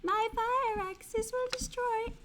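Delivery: high, ringing wizard threat; hammed-up wizard hammering home the clue. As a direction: declaim it grandly, building to a loud cry. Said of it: "I'll do my wizard voice".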